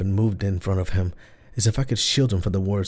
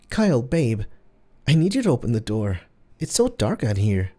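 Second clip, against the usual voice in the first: soothing; 3 semitones higher than usual. Acted. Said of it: "soft and soothing".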